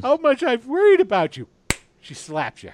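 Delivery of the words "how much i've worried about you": high, loud doting mother. Retold or imitated. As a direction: play the fussing mom loudly. Retelling his mother's words.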